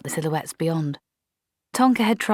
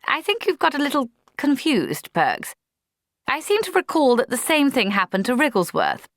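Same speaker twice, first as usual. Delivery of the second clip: nervous; 9 semitones higher than usual. A narrator's reading. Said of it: "grinned nervously".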